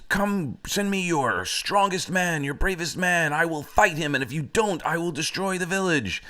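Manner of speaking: screaming giant. Acted. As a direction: call out the challenge like a storybook giant. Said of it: "he screams".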